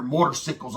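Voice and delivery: "motorcycles" said as "motor-sickles"; "motorcycles" with "cycles" like "sickles"; mock white pronunciation. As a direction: imitate the biker saying "motorcycles" as "motor-sickles". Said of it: "They say motorcycles".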